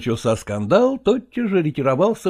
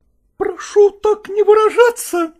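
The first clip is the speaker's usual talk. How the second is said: much higher, louder sharp protest; shouted; 5 dB louder than usual. Acted. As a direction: cry it out flaring up. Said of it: "закричала Малкова".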